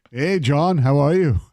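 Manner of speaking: light mock French accent; French-accented caller, half-hearted. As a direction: greet like a hammed-up French Canadian. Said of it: "My Canadian accent? My French accent?".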